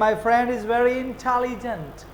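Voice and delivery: very slow, intelligent said the English way; native English way. Shown as a demonstration. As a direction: model the sentence slowly like a native. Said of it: "इंटेलिजेंट ऐसे बोलते हैं". (अंग्रेज़ों की तरह धीरे धीरे intelligent)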